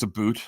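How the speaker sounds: "a boot" with a long oo; "about" turned into "a boot"; mistaken Canadian stereotype. Shown as a demonstration. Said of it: "people think it's".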